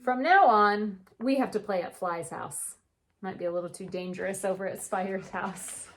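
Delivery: gentle storybook read-aloud; unhurried picture book narration; reading to children. A narrator's reading. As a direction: read it like story time for kids.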